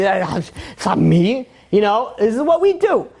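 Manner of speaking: slow, drawn-out mock innocence; dismissive shrug. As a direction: shrug off the blame lazily. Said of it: "as if it's not his problem".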